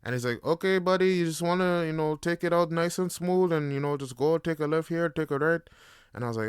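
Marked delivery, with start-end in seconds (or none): 0.4-5.6 a light, higher, upbeat instructor's voice; cheerful coaching, lightly voiced; driving instructor voice.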